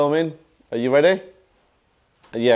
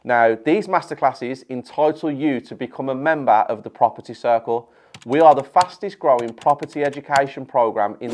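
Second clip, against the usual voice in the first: ad read. Acted. Ad read for his masterclasses.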